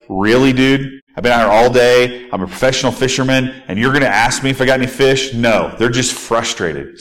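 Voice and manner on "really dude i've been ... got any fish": exasperated fisherman. Retold or imitated. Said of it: "you can feel like".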